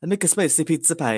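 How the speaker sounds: hammed-up foreign vampire voice; Count Dracula. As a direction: play a campy vampire with a silly accent. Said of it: "Count Dracula".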